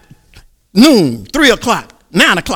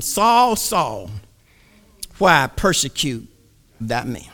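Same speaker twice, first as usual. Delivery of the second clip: low, hushed divine voice; a quiet, solemn heavenly call; 7 semitones lower, 6 dB quieter, slower than usual. Acted. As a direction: speak softly as God from above. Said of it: "heard a voice saying unto him".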